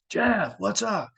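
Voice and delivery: high, drawn-out mock call. Still locked out, calling Jeff again, slow and high. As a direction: stretch his name out, calling up high.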